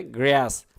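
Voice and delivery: গ্রাস with a flat "æ", "græs"; "ae" vowel. Shown as a demonstration. Teacher repeats the vowel, গ্রাস with æ as in "græs". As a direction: say গ্রাস with æ, not ah. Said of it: "এস উচ্চারণ হবে".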